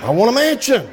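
emphatic. Acted. Repeated with force.

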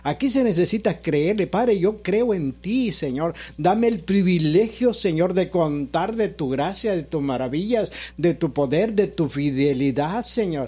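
oración predicada con cadencia ondulante; prédica con fe. Real, not acted. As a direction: proclama y ruega con fervor, frase por frase. (prédica ferviente y rítmica)

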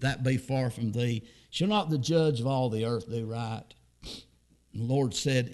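reading Genesis aloud from the pulpit; measured, solemn King James reading; preacher reading scripture to the congregation. Acted.

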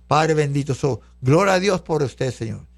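oración de gratitud, algo más grave; dirígete a Dios en oración de cierre. Real, not acted. Sigue orando y alabando. (plegaria de agradecimiento en tono sereno)

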